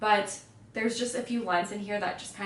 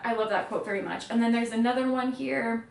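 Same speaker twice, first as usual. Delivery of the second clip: usual speaking voice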